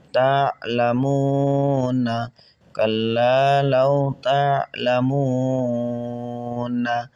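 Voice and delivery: slow chanted verse; Quran recitation. Shown as a demonstration. Teacher chants the next verse slowly for students. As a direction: intone it gently and slowly.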